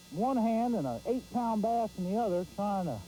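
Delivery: breathless after landing a fish; out of breath. Real, not acted. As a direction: talk while still winded. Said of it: "about out of breath out of that one".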